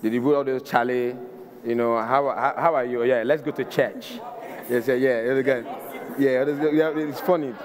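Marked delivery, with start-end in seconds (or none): 2.3-6.7 put-on Ghanaian accent. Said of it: "their accent is different".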